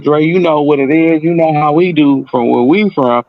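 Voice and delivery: lightly voiced devil on the shoulder; tempting inner voice. Inner voice urging revenge on the freeway, mild sly coaxing. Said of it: "The little voice on one shoulder".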